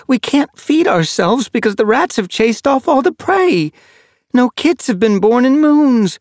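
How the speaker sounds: sad white she-cat. A narrator's reading. White she-cat answers the ginger one, high and bitter. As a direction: lay out every grief of the clan. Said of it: "shaking her head sadly".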